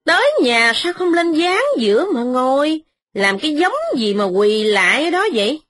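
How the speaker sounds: high, mocking fast jibes; mock him with sharp, high sarcasm; sarcastic shouting. Wife sneers at the kneeling tenant, high and fast. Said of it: "mợ la rằng".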